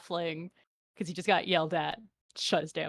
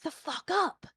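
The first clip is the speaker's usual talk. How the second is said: angry halfling; 9 semitones higher than usual. Acted. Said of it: "the halfling just, like".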